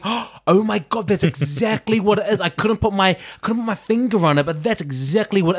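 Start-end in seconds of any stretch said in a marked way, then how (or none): 0.0-2.4 mock realization.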